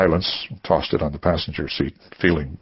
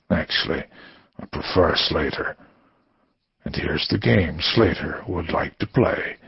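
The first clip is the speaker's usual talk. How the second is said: calm, unhurried threat; Slater. Acted.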